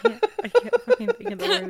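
frustrated outburst. Real, not acted.

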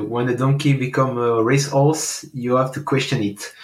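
put-on English phrase read slowly in a French speaker's English accent. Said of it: "mon accent anglais". (lire lentement la phrase avec son accent anglais)

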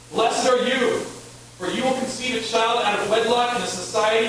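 high, loud, overbright proclamation; ironic angel voice. Pretend. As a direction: sell bad news like a blessing. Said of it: "I imagine they have sounded like this".

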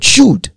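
should said high and falling; single word should, hit hard and high; stress on should. Shown as a demonstration. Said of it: "Mark that word".

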